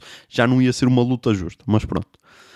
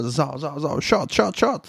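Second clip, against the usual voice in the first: high, quick shot, shot; mock pouring sounds; 3 semitones higher, much slower than usual. Comic mimicking a bartender pouring shots, high.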